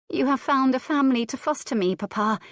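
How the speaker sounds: put-on high, fast, fearful little-girl voice; a small daughter afraid of being sent away; frightened young girl. Girl asks her father in fear, high and quick. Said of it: "heard the fear in her young voice".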